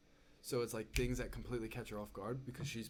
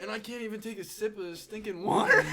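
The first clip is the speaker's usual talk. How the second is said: higher and louder, amused exasperation; laughing disbelief; 8 semitones higher, 9 dB louder than usual. Retold or imitated. Telling mom about the plane and the drink, higher and louder. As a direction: build up in amazed self-mockery. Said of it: "I said".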